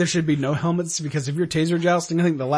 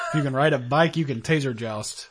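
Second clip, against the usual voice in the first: laughing; 3 semitones lower than usual. Retold or imitated. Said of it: "That's the quote of the day".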